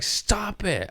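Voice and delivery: high pitched scold; retold cat scold. Owner to cat, high scold. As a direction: squeak it at the cat. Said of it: "Where I'm like".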